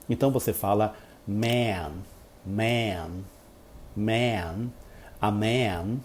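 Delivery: man with a wide open, drawn-out vowel. Shown as a demonstration. Teacher showing the open American vowel in man. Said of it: "esse exagero todo que eu tô fazendo".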